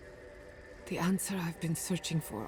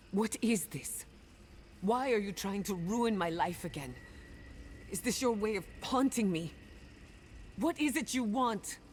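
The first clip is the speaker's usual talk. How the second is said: exasperated demand; 4 semitones higher than usual. Acted. Demands answers from spirits haunting her.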